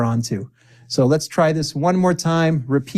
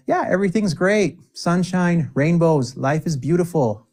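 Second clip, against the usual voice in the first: higher, sunny over-the-top cheer; mock cheerful answer; 4 semitones higher than usual. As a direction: gush like everything is sunshine and rainbows.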